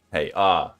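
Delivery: normal talking voice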